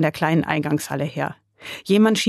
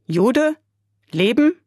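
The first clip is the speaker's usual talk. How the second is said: high, loud surprised echo of Jude; astonished echo, Jude? with a high rise; surprised Russian soldier; 7 semitones higher, 3 dB louder, slower than usual. A narrator's reading.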